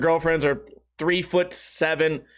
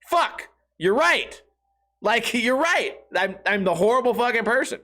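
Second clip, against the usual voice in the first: mock defeated admission; 3 semitones higher than usual. Retold admission to friends.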